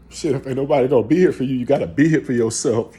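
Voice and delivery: loud, quick, insistent; forceful urging. Real, not acted. Urges self-reliance emphatically.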